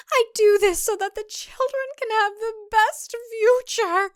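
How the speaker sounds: high, earnest mother-in-law lecturing; stern matron voice; preachy older woman. Acted. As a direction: lay down the old traditional values. Deborah defending herself.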